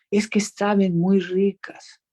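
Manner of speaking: lightly voiced pleading kid; pleading child. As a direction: wheedle like a little boy wanting a soda. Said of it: "y me dijo".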